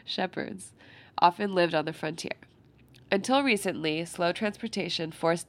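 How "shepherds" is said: laughing whisper. Real, not acted. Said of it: "I thought shepherds was pronounced shepherds".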